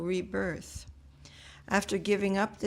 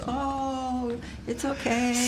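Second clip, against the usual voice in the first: higher, cooing reassurance, lightly acted; soothing mother; 5 semitones higher, slower than usual. Yashoda comforts crying Krishna, playfully soothing. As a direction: imitate a mother comforting her baby. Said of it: "and she goes".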